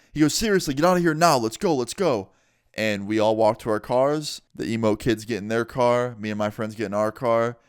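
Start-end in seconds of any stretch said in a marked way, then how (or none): 0.3-2.3 higher, hurried imitation of a cop; imitated insistent cop. Cop hurrying kids out of park, imitated urgent order. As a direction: hustle them out, quick and insistent.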